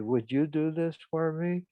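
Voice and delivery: lightly imitated plaintive request; plaintive plea. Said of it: "she said to me plaintively".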